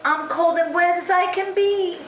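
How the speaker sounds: high storybook pig; high cold pig voice. Acted. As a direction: plead like a cold wet piglet.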